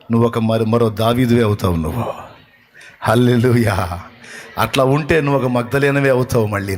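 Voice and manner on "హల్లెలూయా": slow, stretched preacher's hallelujah; drawn-out hallelujah. Real, not acted. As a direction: draw the word out in praise.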